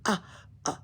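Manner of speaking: a scared little gasp, then the question pushed out loud; frightened girl asking if ghosts live in the attic. A narrator's reading. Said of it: "Annika gasped".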